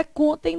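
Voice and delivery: contém said as CON-tem; stress on the first syllable. Shown as a demonstration. Teacher explaining the verb contar, contém stressed on CON. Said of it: "do verbo contar".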